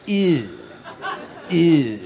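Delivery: drawn-out mock French "ew"; imitated French cheer. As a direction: parody how the French would whoop. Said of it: "the French go more like".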